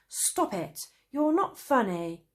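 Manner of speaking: irritated snap at a friend; annoyed. A narrator's reading. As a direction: tell him off, fed up. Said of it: "Traveller Cane said to Traveller Fizz".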